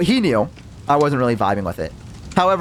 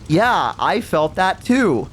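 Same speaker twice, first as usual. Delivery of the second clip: a little scared; 4 semitones higher, much slower than usual. Retold or imitated. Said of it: "like, a little scared now".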